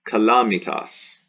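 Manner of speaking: "calamitas" stressed on LA, ca-LA-mi-tas; "calamitas" with the accent on its second A. Shown as a demonstration. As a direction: hit the second syllable of "calamitas". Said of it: "the accent falls here on the A".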